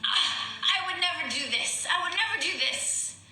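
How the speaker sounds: put-on high, indignant Italian-accented protest; teasing imitation of an Italian accent, pitched high; strong Italian accent. Teasing her co-star about mixing with her character, strong Italian accent. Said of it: "your Italian gets really strong".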